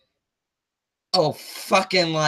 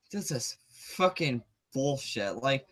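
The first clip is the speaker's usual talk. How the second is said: much softer, slow and low; drained after the sigh, mutter it; exhausted mutter of disgust; defeated mutter; 6 semitones lower, 13 dB quieter, slower than usual. Real, not acted.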